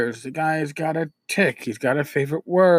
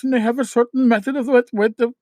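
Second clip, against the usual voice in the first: Indian accent; 6 semitones higher, faster than usual. Shown as a demonstration. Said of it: "the Indian accent where the people talk like this".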